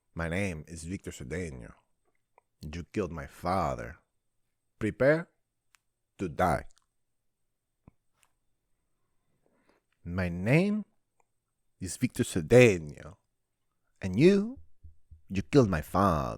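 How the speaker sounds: big cinematic dramatic delivery, swooping pitch. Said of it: "Great fucking movie".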